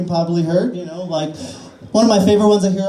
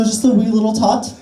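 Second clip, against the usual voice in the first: put-on Irish accent; 4 semitones higher than usual. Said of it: "I don't know why I went Irish there".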